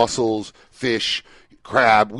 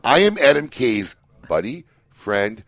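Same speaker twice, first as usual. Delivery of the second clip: reading out options; slower than usual. Pretend. Reads out an imagined T-shirt.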